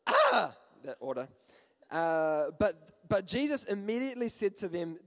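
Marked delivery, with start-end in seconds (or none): 0.1-0.6 brief line, then high loud mock scream; hammed-up terror bursting into a shriek; acted frightened cry. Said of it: "cried out in fear".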